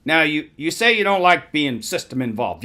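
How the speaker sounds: put-on New York accent. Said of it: "I try to do the New York accent".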